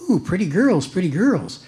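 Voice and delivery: a lightly voiced squawking parrot. Joke parrot greeting the lady, light parrot voice. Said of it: "The parrot goes".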